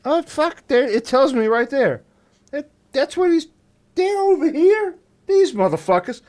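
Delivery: very high, squeezed alien voice; worked-up alien. Acted. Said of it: "Would they go".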